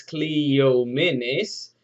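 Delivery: Cleomenes said slowly and carefully as klee-OH-men-ees; teacher models Cleomenes syllable by syllable; spelled name said out. Shown as a demonstration. Teacher models the name Cleomenes for students. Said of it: "K L I O M N E S".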